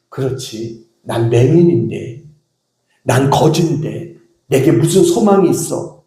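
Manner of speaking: low, resigned self-talk; imagined discouragement. Pretend. Preacher imagines blind beggar losing hope, mock resignation. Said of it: "그는 낙심하기는커녕".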